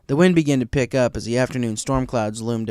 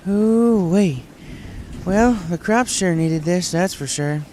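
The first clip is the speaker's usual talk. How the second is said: higher, louder, slower country drawl; Applejack; 7 semitones higher, 5 dB louder, slower than usual. A narrator's reading. Applejack pleased at the storm at dinner, higher and louder. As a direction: relish the rain like a farmer.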